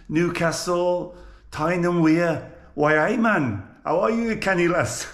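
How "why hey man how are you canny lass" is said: playful Geordie greeting, lilting up; Geordie accent. Acted. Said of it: "I have a go at every accent".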